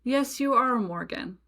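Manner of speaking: approving yes, voiced with a smile; retold delight. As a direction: lightly act out a delighted realization. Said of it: "gets this big smile on his face".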